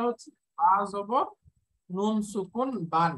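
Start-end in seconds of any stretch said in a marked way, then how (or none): 1.9-3.1 নুন সুকুন বান with a closing n; spelling-out recitation. Shown as a demonstration. Teacher showing how the sound is formed, spelling-out recitation of নুন সুকুন বান. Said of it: "এরকম উচ্চারণ হয়ে যাচ্ছে".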